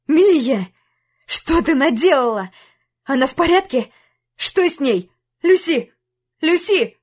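calling out in rising panic over her; panicked shouting. Acted. Jack finds Lucy lying hurt. (испуганный крик)

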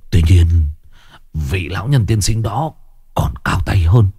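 put-on halting, effortful old man's explanation; ailing old father. Sick father propped up to breathe explains to sons, laboured. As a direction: pause for breath between short phrases.

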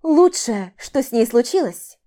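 громкая злая усмешка в вопросе; переспроси с яростной насмешкой; с усмешкой. Acted. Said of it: "усмехнулась я". (язвительно переспрашивает)

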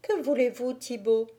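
a hint of a sweet girl's reply; gentle innocence. A narrator's reading. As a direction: answer simply, without guile. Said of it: "avec la même douceur et la même innocence".

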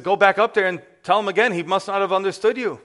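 a mother sending her daughter back upstairs; insistent mother. Retold or imitated.

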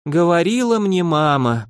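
slow, mournful drawl; a wife's self-pitying lament; drawn-out lament. A narrator's reading. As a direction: sigh it as a grievance. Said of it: "протянули в ответ горестно".

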